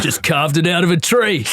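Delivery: broad mock-Australian, half laughing; playful Aussie accent. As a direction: play the boastful Aussie charmer. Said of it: "I can do full Aussie".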